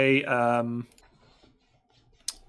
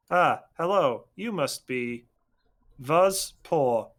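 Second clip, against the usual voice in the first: droid voice; slower than usual. Acted. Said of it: "suddenly sits up and says".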